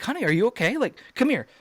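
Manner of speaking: put-on high-pitched, anxious checking on a child; retold worried father. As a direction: re-enact a dad's urgent concern. Father checks on daughter after attack.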